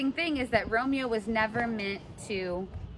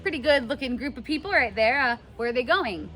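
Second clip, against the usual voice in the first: paraphrased Romeo; 4 semitones higher than usual. Retold or imitated. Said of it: "He's like".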